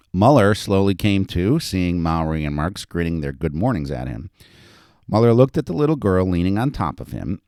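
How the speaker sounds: animated reading of a story; story narration. A narrator's reading. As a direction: read it out to an audience with lively emphasis. Author reads own story aloud.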